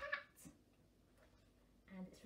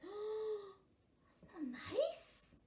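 high, very slow crying reply; hurt whimper; 9 semitones higher, much slower than usual. Acted. Insulted puffin answering, mock crying. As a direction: whine it through tears.

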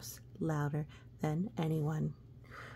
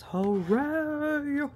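high, loud cheer; 9 semitones higher, 6 dB louder than usual. Acted. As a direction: shout hooray with joy. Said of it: "It says".

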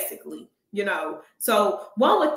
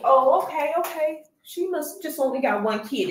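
higher, lightly mocking viewer voice; naive viewer; 6 semitones higher than usual. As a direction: play a clueless new viewer, a bit higher. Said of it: "one would think".

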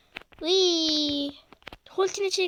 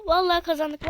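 excited claim; 3 dB louder than usual. Real, not acted. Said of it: "repeated quieter and slower".

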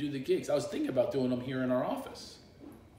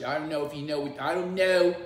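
nasal, loud Philadelphia accent; 3 semitones higher, 6 dB louder than usual. Shown as a demonstration. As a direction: lean into nasal Philly vowels. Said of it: "That's a Philadelphia accent".

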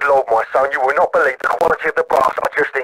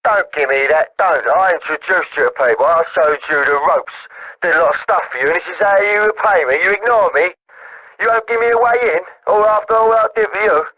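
put-on drunken rant climbing higher in pitch; drunk, aggrieved; 3 semitones higher than usual. Drunk caller accusing Tommy of ignoring him, rising aggrieved rant. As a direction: build from grumble to high-pitched drunken grievance. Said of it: "you're drunk".

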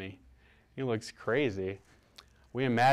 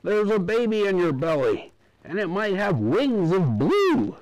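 doctor's voice; 9 semitones higher, 7 dB louder than usual. A narrator's reading. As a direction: draw it out like a solemn doctor. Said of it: "the doctor said".

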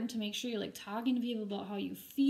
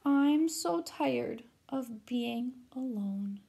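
weepy ghost; much slower than usual. Acted. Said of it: "she started to weep".

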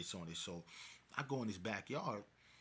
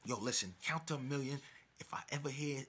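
forceful, higher stage whisper; whispered threat; 4 semitones higher than usual. Retold or imitated. Storyteller orders captive to count, whispered threat.

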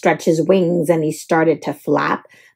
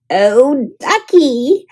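high delighted "ducky!"; excited cry; 3 semitones higher, much slower than usual. A narrator's reading. James, excited, cries out at the fallen dragon. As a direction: James cries out at the hurt duck. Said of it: "cried James".

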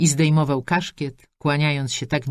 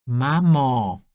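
loud, fed-up cry of mum; daughter's loud exasperated plea; exasperated protest; 4 dB louder than usual. Acted. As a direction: cut her mother off in protest. Daughter protests a third time.

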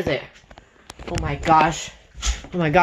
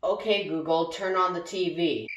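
lower, softer, giving up; defeated mumble; 5 semitones lower, 7 dB quieter than usual. Acted. User wearily asking the speaker to turn on the TV. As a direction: sigh the command out, worn down.

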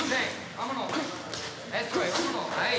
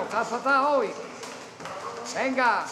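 scolding shout; slower than usual. Real, not acted. Coach telling boxer he's off today, scolding shout.

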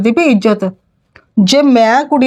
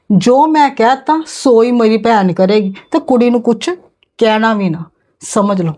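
lower, fading menacing warning; low threat; 3 semitones lower than usual. Acted. Aunt's parting threat. (ਨੀਵੀਂ ਹੁੰਦੀ ਧਮਕੀ)

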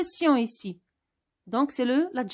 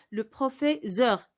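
1 slow dictation; slower than usual. Shown as a demonstration. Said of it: "C'est une règle".

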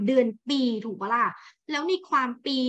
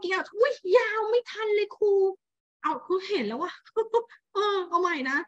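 laughing; 9 semitones higher than usual. Real, not acted. Missed the audio, laughs at herself.

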